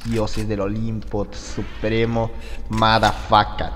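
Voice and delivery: slow, grandiose over-the-top praise; mock epic. Real, not acted. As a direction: hype it like a legend. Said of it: "exagera la jugada con solemnidad". (tono épico burlón, lento)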